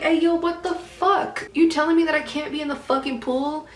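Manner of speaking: high, loud outraged rant; acted fury. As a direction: retell it as an indignant, incredulous outburst. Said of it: "I got so furious".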